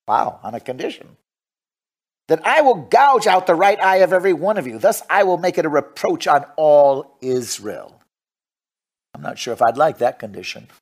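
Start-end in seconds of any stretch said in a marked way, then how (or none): 2.3-8.0 measured, declaimed Bible reading; scripture reading. Acted. Preacher reads First Samuel to the congregation, scripture reading. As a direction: read scripture out with deliberate phrasing.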